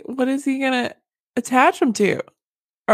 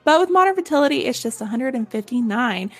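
lively, chatty sponsor read; scripted pitch with personal asides; podcast ad read; 3 semitones higher than usual. Acted. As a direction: sell it to listeners like trusted friends. Reads a sponsor's advertisement.

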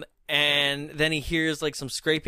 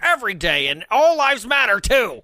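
higher, louder mock internet troll; Facebook troll; 6 semitones higher, 4 dB louder than usual. Mocking a Facebook troll's argument, raised troll voice. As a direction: rant like an indignant online troll. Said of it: "What are you, an Facebook troll now?".

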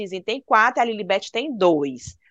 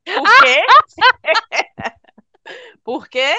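put-on higher, louder stubborn kid voice; 5 semitones higher, 5 dB louder than usual. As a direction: play a reluctant prince refusing. George voiced refusing to play.

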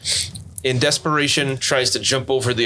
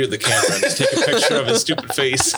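talking through laughter; laughing. Real, not acted. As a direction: crack up while saying it. Cracking up over a joke.

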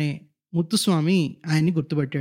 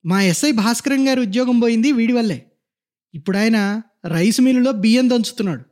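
scornful rant; 3 semitones higher than usual. Acted. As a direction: run him down with disgust. Constable rants about the old man.

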